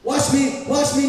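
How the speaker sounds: mock attention-seeker calling out, loud; hammed-up look-at-me plea; loud mock show-off begging to be watched. Mocking show-off craving attention.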